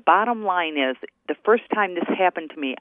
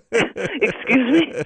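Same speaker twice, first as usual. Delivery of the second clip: mock incredulous; 7 semitones higher, 3 dB louder, much slower than usual. Incredulous retort to bank clerk.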